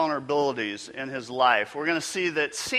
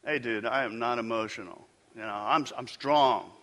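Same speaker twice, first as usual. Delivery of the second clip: low, lightly voiced tough guy insisting he's fine; a hint of a guy brushing it off; playful mock denial; macho guy voice; 5 semitones lower, 3 dB quieter than usual. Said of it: "there's some guys out there right now, they're going".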